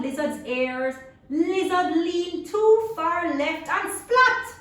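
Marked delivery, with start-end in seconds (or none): 1.3-4.5 higher, louder, slow build to splat; big comic splat; dramatic splat. A narrator's reading. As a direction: land splat with a bang. Dramatic fall.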